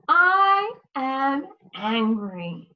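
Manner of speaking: slow, mock-angry statement. Shown as a demonstration. Teacher demonstrating an angry sentence, slow and mock cross. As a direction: act out being a little angry at the wind. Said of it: "I would be a little angry".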